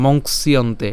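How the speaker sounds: মংসিয়ন্তে in one piece; no gap inside মংসিয়ন্তে; joined together. Shown as a demonstration. Teacher states the preferred reading, মংসিয়ন্তে run together. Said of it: "আমরা একসাথে উচ্চারণ করব".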